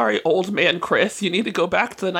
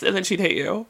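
ordinary delivery

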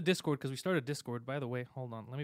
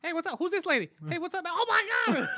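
much higher, louder put-on voice, breaking into laughter; mock ghost greeting; 9 dB louder than usual. A ghost greets the friend dragged into the basement, high hammed-up voice. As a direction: play a spooky cheerful ghost greeting a visitor.

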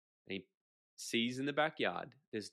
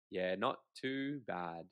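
laid-back Aussie reply; 3 semitones lower, much slower than usual. Retold or imitated. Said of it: "They'll say".

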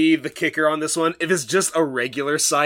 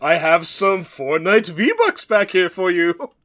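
high, slow sleazy lure; creepy scam offer; 4 semitones higher, 4 dB louder, slower than usual. Acted. Stranger luring Budulinik with V-Bucks, slow high. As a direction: dangle the bait slowly.

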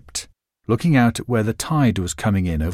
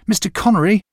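second call, higher and more urgent; 10 semitones higher, 4 dB louder, faster than usual. A narrator's reading. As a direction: shout his name, he's getting too far. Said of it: "I called to him".

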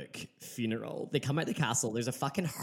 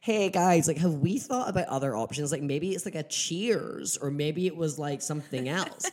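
sweet helpful Charlotte; 2 semitones higher than usual. Retold or imitated. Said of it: "Charlotte comes up and she's like".

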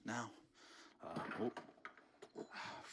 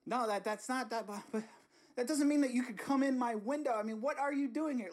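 higher, louder indignant protest; outraged shout; 9 semitones higher, 4 dB louder than usual. Acted. The homeowner yells at Bernie for coming in the window. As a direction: push back at the intruder.

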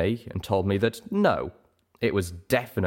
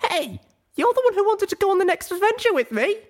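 high, defensive filly voice; high young mare voice; 5 dB louder than usual. Acted. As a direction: talk yourself out of it, flustered. Pip protesting.

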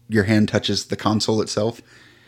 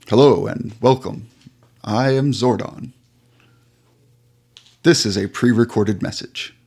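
giant alien booming voice. Acted. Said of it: "a booming voice says".

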